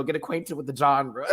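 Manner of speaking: shouted through laughter; laughing shout. Retold or imitated. Quoting Lux while laughing, shouted. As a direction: quote it while cracking up. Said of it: "I was crying over?".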